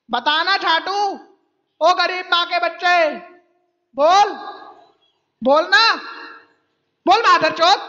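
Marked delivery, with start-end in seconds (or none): 4.0-7.8 taunting shout. Real, not acted. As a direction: bark it at him to answer. Taunting a silent opponent on call.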